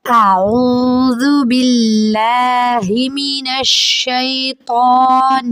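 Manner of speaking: slow, drawn-out chanted recitation; joined-up recitation. Shown as a demonstration. Teacher recites the words joined together. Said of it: "ملا کے پڑھیں گے اب".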